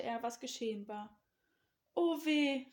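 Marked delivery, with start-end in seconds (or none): 1.9-2.7 high, loud dismay; aghast exclamation; horrified cry. A narrator's reading. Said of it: "rief er entsetzt".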